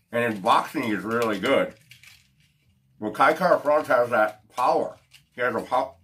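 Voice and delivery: talking around a cigar; words muffled by a cigar in mouth. Real, not acted. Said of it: "sorry, I'm talking with the cigar in my mouth".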